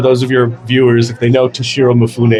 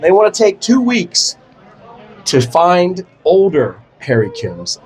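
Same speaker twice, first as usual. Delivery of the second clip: casting director voice; 5 semitones higher, slower than usual. Retold or imitated. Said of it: "They said".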